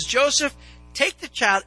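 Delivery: God speaking. Acted. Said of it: "God shows up in a dream and says".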